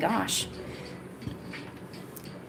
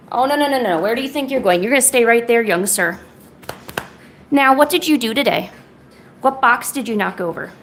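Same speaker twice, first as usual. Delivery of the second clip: playful stern scolding of the cat, louder; mock scolding; 4 dB louder than usual. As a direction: tell the cat off in a hammed-up strict voice. Owner mock-scolding her cat.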